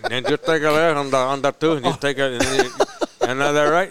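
imitated Cuban English, unfinished word endings; Cuban accent. Cuban worker giving directions to the Keys, clipped-ending Cuban accent. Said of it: "They don't ever finish the word".

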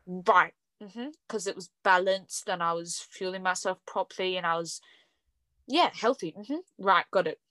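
mock agreement in short dry beats; understated ironic acknowledgement; sarcastic. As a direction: pretend to accept it while doubting every bit. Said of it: "definitely being sarcastic there".

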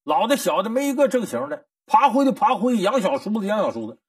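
hammed-up old servant cursing his masters after drinking; drunken cursing. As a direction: rail at the whole household over wine. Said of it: "喝点酒之后骂".

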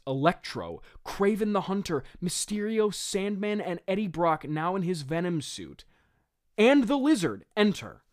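mock-dramatic stage-direction reading. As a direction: read it out as a grand cast list. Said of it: "I'll just read it".

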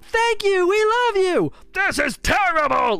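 very high, loud squealing gratitude; mock gushing fan. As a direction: flip to adoring fangirl. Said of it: "then you're like".

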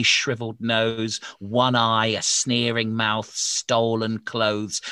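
loud, teasing scary storyteller; mock spooky warning. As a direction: tease the kids with a creepy list. Scaring child listeners mock warning.

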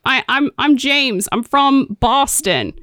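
hint of a mock Boston accent; slow, put-on Boston accent; James. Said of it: "This is my Philadelphia accent".

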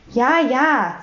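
mildly cheerful agreement; gut gelaunt. A narrator's reading. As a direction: agree lightly, in good humour. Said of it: "sagte Herr Taschenbier gut gelaunt". (leicht vergnügte Zustimmung)

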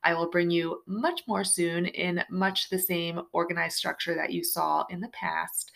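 soft unvoiced whisper. Real, not acted. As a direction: whisper it close to the mic. Whispered aside in outro.

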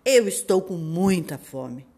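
loud hungry wolf. Acted. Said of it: "falou o lobo". (voz de lobo)

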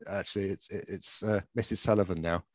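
acted hushed admission, taken to one side; quiet aside. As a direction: break it to him quietly, haltingly. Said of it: "takes him to one side".

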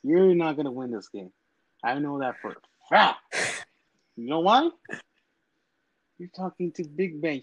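trash-talking wrestler cutting a promo; wrestling promo. Acted. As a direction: hype it up like a heel wrestler. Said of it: "if you wanna take this time to fucking cut a promo".

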